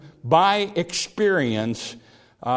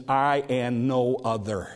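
slow "I and no other", stress on "I"; emphatic I. Shown as a demonstration. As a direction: press hard on "I".

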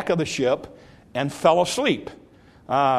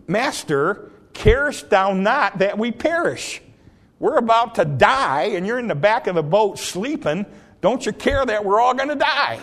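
higher and rising, alarmed; frightened cry; 6 semitones higher than usual. Retold or imitated. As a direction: cry out in fear of drowning. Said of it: "Now, they did say".

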